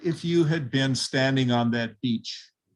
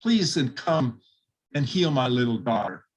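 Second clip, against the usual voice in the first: pleading. Retold or imitated. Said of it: "pled with him".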